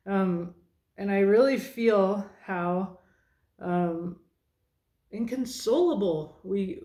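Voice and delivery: holding back tears while speaking; teary. Real, not acted. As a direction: voice catching with tears, slow. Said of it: "getting a little teary here".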